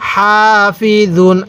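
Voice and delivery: slow হাফিজুন with a long, airy "haa" and soft "z"; soft letter, airy ha. Shown as a demonstration. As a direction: draw out হাফিজুন, breath on হা, জ kept soft. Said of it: "জটা নরম করে উচ্চারণ করব". (হাফিজুন: হা-তে বাতাস, জ নরম, টেনে পড়া)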